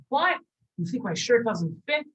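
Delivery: high, indignant "What?" of a hurt friend; offended disbelief. Acted. Shimon takes offence at the shirt remark, high and indignant. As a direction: squeak out the insult taken.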